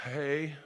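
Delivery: soft mock gun noise; imitated feeble gun. Comic showing the disappointing shotgun, soft noise. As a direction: make the broken gun sound limp. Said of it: "the one that go, went".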